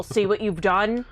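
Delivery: talking with a mouthful; mouth full. Real, not acted. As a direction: say it around a bite of Cheeto. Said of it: "I'm gonna talk with my mouth full".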